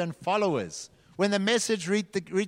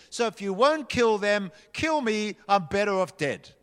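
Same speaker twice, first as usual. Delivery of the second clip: Jonah yelling; 4 semitones higher than usual. Acted. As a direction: rant at God like a furious prophet. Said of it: "He yelled at God".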